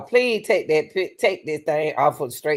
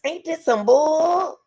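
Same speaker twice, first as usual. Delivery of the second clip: incredulous; 9 semitones higher, slower than usual. Real, not acted. Disbelief at the story.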